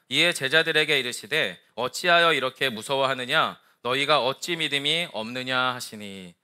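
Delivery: solemn recital of a Gospel passage; scripture reading. A narrator's reading. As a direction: read the verses out evenly and formally. Reads the scripture passage aloud.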